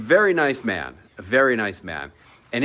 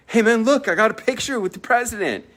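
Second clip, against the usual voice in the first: excited bragging; 9 semitones higher than usual. Retold or imitated. Bragging to chef friend.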